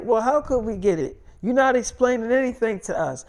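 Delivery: mildly heated retort; exasperated mother. Retold or imitated. Mother argues back.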